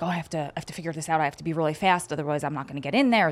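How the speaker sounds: fast, flustered rush; frantic. Retold or imitated. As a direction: rush it like you're panicking. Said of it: "I'm like".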